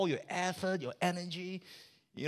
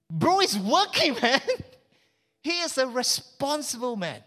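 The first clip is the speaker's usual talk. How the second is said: hardworking son; 8 semitones higher, 3 dB louder than usual. Acted. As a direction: play the toiling older son. Older son working in field.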